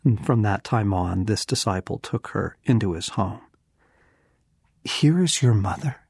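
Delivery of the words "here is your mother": rising, disbelieving question; incredulous. Shown as a demonstration. Preacher can't believe the words from the cross, incredulous. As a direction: ask it as if you can't believe it. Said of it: "you have got to be kidding me".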